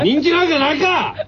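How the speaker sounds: laughing retort. Real, not acted. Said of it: "人気なんかってないやろ。".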